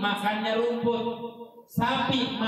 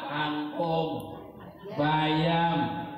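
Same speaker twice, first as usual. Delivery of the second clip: laughing list; 3 semitones lower, slower than usual. Real, not acted.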